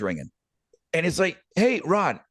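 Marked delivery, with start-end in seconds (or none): 1.5-2.2 put-on light German accent greeting; a hint of a German accent on the hello; friendly hello in a lightly done German accent. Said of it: "He had a German accent".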